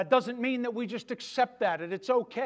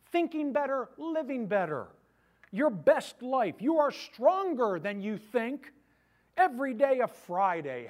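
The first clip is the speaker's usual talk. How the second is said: mocking book titles; 4 dB louder than usual.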